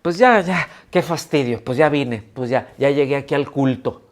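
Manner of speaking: mock sighing churchgoer, grudging; a reluctant believer, sighing at church again; grudging, fed-up attitude. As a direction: whine it like you'd rather not be there. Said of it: "la actitud con la que está diciendo".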